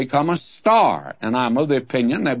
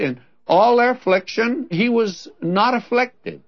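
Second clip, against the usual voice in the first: raised, fervent reading that leans hard on "not" in "he was not afflicted"; stress on not; 6 semitones higher than usual. Shown as a demonstration. Preacher savouring the verse he loves, stress on "not". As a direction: ring out "not" above the rest of the verse. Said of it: "But I like it".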